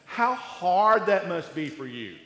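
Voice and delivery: a hint of fake sorrow for the rich; sarcastic lament. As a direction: feign sympathy you don't feel. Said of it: "It's this sarcastic lament".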